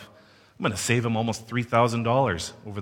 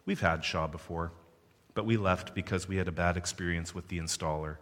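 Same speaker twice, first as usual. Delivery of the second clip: no emotion. Retold or imitated. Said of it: "with absolutely no emotion and says".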